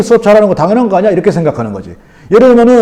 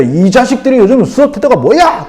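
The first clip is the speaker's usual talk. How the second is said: scolding the class; 4 semitones higher than usual. Retold or imitated. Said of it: "막 야단을 쳐".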